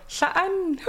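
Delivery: "Saan" said high, with a breathy lateral ɬ at the start; Kwakwala "Saan". Shown as a demonstration. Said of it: "Or I go".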